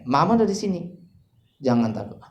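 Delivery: mother's patience starting to slip; rising-tone mother. Acted. Mother repeating herself to her crying child, voice rising. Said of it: "nadanya mulai naik".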